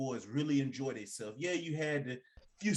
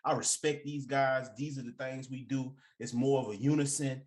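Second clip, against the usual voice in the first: cool laid-back voice. Retold or imitated. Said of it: "how he was talking".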